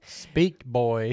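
loud dog command. Pretend. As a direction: order him like a dog.

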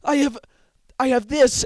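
high, hesitant dubbed voice; timid Gi-hun. Retold or imitated. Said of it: "And Gi-hun's like".

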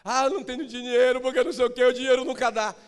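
high, loud whiny complaint; mock complaining. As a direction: act the grumbler. (reclamação exagerada)

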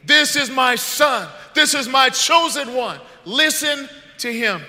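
booming slow proclamation as God; voicing God. Pastor voices God to the kids, booming and slow. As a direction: announce it like a voice from the cloud. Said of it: "God says".

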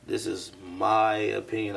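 slow, with MY drawn out; stress on MY. Shown as a demonstration. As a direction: lean on the word "my". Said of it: "I put the emphasis on my".

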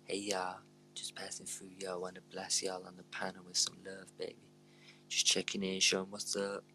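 lightly put-on casual American accent; American passer-by. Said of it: "random American coming in being like".

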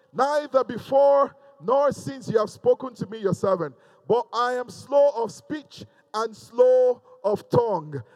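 preacher proclaiming a Bible passage; scripture reading. Acted. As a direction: declaim the verse to the congregation. Reads scripture aloud to congregation.

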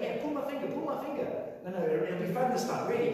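high, playful teasing; joking Peter. Retold or imitated. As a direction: tease like a prankster mate. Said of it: "I can imagine Peter going".

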